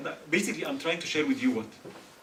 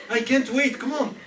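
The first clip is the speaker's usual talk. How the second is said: louder, higher snap of impatience; impatient husband; 7 semitones higher, 8 dB louder than usual. Retold or imitated. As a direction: hurry her along, fed up. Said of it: "That's the message I'm sending".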